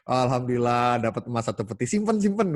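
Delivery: hug the gold close like a miser; ordinary people hoarding their windfall; greedy hoarder. Acted. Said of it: "beda banget kan".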